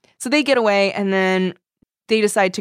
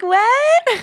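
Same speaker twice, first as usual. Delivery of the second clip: very high comic squawk; hammed-up, high one-word reaction; mock startled cry; 4 dB louder than usual. Host acts out the retold startled reply, mock cry.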